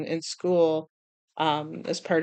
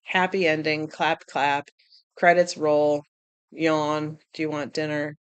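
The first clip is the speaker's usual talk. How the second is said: low, bored, unimpressed shrug; a viewer yawning through a cliché ending; 4 semitones lower than usual. Retold or imitated. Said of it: "It's like".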